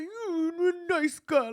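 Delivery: high, slow soothing mock therapist. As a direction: coo it like a gentle therapist. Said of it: "she's like".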